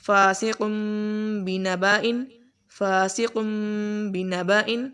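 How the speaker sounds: chanted tajweed recitation with a nasal M; Quran recitation. Shown as a demonstration. Teacher recites the example for the students. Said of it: "ایسے ہی آگے".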